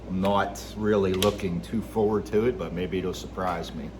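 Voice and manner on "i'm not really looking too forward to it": ordinary talk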